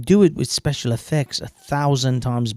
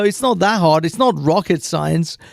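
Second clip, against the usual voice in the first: mocking quote; 2 semitones higher than usual. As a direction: toss off the cliché with scorn. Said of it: "they say".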